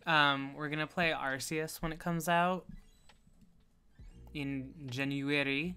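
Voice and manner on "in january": "January" slowly stretched into careful, separate syllables; odd pronunciation. Real, not acted. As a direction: draw out "January" oddly, lifting at the end. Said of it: "I don't know why I said it like that".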